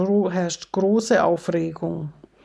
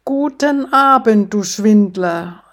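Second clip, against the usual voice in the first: sly devil; 6 dB louder than usual. Acted. Devil greets Pope.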